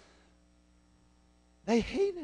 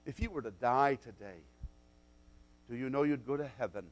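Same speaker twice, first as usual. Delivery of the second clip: softer, earnest asking; soft soul-winner's question; gentle question; 9 semitones lower, 12 dB quieter, faster than usual. Retold or imitated. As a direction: lean in and ask it quietly. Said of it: "he said to her".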